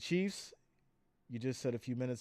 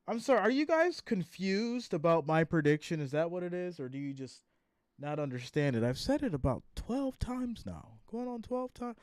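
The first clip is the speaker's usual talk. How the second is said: exasperated; 3 semitones higher than usual. Real, not acted. Annoyed at repeated prediction questions.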